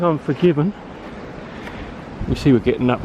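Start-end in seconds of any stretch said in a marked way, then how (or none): 2.3-3.0 puffing from the uphill climb; winded, talking between breaths. Real, not acted. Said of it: "You can hear I'm out of breath".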